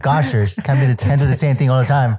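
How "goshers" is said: folksy cartoon exclamation; old prospector. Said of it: "I got from cartoons".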